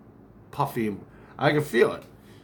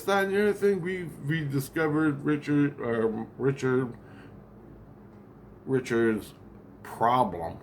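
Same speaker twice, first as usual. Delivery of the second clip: higher, urgent report; phone call voice; 4 semitones higher than usual. Retold or imitated. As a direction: rattle it off like a dispatcher. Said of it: "Whatever he said in the phone".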